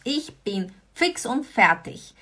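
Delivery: Ich bin fix und fertig repeated, a little slow; repeated model phrase. Shown as a demonstration. Teacher repeating the expression to students. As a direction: repeat it clearly. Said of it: "Was bedeutet das?".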